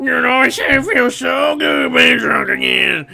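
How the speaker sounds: put-on slurring happy drunk; lightly voiced rowdy drunk; drunk guy voice. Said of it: "I'm a little drunk".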